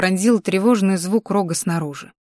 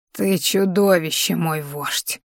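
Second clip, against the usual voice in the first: put-on old crone, quiet and bitter; old witch voice; 2 semitones lower, 3 dB quieter, slower than usual. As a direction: hiss it like an ancient healer. Old healer accuses chief. (тихий голос старой знахарки)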